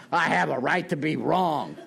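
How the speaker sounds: repeating the words back with an incredulous laugh; mock the phrase as if it were absurd; insulted disbelief. Recovering drinker scoffs at the old timers' advice, incredulous. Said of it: "what an insulting thing to say to a man".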